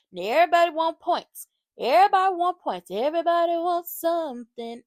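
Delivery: loud, high insistent complaint; riled-up reality TV recap rant; emphatic rant. Real, not acted. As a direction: hammer home that everybody wants points. Ranting about contestants wanting points.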